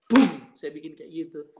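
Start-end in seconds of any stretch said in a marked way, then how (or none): 0.1-0.5 loud, short "bum" sound effect; imitated thump. Speaker shows what he did with the Bible, loud thump. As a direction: punch out a sudden thud. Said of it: "saya gini kan".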